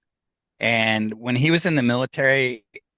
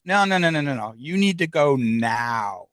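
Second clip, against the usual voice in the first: dad's insistent voice; 3 semitones higher than usual. Retold or imitated. Dad's voice in daughter's head redirecting her drive, lightly imitated insistence. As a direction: imitate a father overruling, drawing out the command. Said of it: "And I hear his voice goes".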